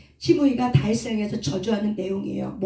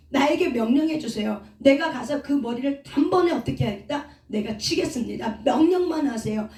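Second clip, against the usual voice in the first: angry general. Acted. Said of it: "라고 이렇게 화가 나".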